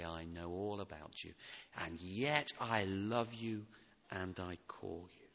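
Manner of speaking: tender call. Acted. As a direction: speak it like a loving whisper of welcome. Jesus' loving call to the soul.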